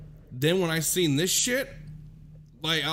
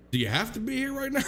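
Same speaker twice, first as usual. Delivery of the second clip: retold irritation, fast and higher; still pissed; 6 semitones higher, faster than usual. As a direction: re-enact annoyance in a rising, hurried question. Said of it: "I'm still pissed".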